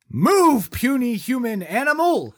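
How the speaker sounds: high booming android command; booming arrogant alien overlord. Retold or imitated. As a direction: bellow it like a haughty machine. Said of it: "this quip from Data".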